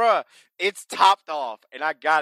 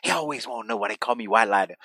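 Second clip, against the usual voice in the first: hammed-up wrestler boast, lower; imitating White Lightning again; 5 semitones lower, faster than usual. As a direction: lower mock promo voice. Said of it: "He goes, he goes".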